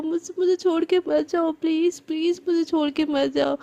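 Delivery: crying plea. Acted. Girl begs her best friend not to leave her, sobbing. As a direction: plead through tears not to be left.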